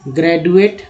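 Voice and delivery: ग्रेजुएट with a retroflex ड, said at normal speed; with a hard D. Shown as a demonstration. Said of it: "पहले ड, फिर द".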